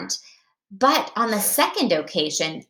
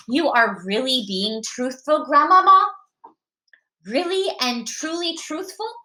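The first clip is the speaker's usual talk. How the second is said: lightly voiced child, rising into higher pitch; questioning grandson; 4 semitones higher than usual. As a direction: ask Grandmama with mild, high-pitched disbelief. Grandson questions his grandmother's truthfulness.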